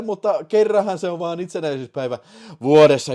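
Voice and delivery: ordinary talk, nothing marked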